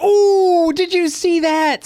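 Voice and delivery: high, eager little critter gasping at the carnage; tiny rabbit thrilled by gore; squeaky rabbit voice. Retold or imitated. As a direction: play the gleeful pet rabbit in a high squeal. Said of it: "And Thumper's like".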